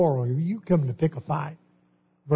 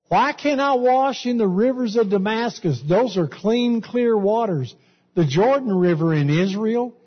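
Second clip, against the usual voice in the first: higher, haughty protest; scornful Naaman; 5 semitones higher than usual. Retold or imitated. Preacher acting Naaman refusing the Jordan, haughty and higher. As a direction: sneer at the muddy river as the proud general.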